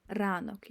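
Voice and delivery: ранок with a trilled Ukrainian R; ранок, trilled R, not P; rolled R. Shown as a demonstration. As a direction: roll the R in ранок. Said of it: "No, that's R".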